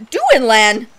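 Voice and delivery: gasp, then call 'Duinlan!' happily; delighted gasp. Real, not acted. Player recognizing the ghost knight, gasping with joy.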